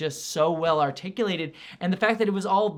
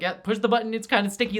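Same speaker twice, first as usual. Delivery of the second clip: resigned; 5 semitones higher, 4 dB louder, faster than usual. Retold or imitated. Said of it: "it's not exasperated".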